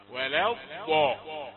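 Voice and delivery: ولا الضاء with ض soft and lingering, slowly; soft dad. Shown as a demonstration. Teacher repeating the correct soft ض in ولا الضاء. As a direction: keep ض loose and drawn in ولا الضاء. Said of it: "تبقى رخوة".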